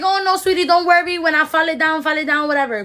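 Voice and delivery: high, sugary voice brushing off a complaint; mock soothing nail tech. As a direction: lightly mimic a dismissive "don't worry".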